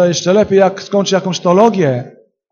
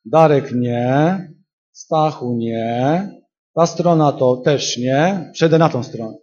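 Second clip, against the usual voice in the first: slow mock rejection; 2 semitones lower, slower than usual. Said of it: "Duch Święty przychodzi i mówi tak".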